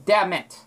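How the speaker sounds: "Damn it" with a very short M. Shown as a demonstration. Showing the short M in damn it. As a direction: clip the M in "Damn it". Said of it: "a really short M".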